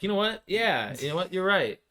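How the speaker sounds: high, loud mock realization; bright sudden agreement; imitating agreeing. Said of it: "I'm like".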